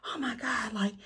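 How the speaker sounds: a hint of panic on a hard climb; panicked whine. Teacher telling students on the hike: lightly voiced fretful whine. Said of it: "I was like".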